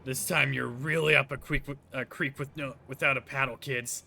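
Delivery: gloating villain taunt; wild unhinged ranting. Acted. Villain taunting, unleashing monster.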